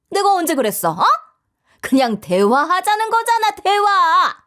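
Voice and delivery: scandalised, high, stretched-out protest; angry mother-in-law. Acted. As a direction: deny being angry while sounding furious. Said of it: "누가 봐도 화를 내는 목소리였어요". (화내며 아니라고 우기는 시어머니)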